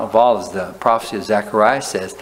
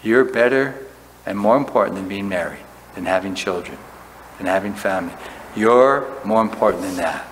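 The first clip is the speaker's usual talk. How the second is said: sincere devotion; 2 semitones lower than usual. Retold or imitated.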